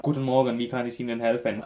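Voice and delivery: mock monotone German greeting; imitating a droning counter clerk; monotonous. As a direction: drone it out like a bored clerk. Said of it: "says in the most monotonous voice ever".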